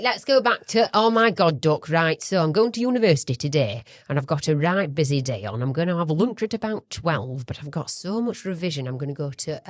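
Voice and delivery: put-on Yorkshire student chatter; broad Yorkshire, rattling off the day's plans; Yorkshire accent. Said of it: "This one's Yorkshire".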